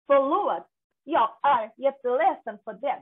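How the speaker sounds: slow, word-by-word Swedish demonstration; careful full words. Shown as a demonstration. Teacher introducing the Swedish apology, slow and careful. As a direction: sound out each word of the Swedish apology slowly. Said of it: "একটা word completely উচ্চারণ করে না".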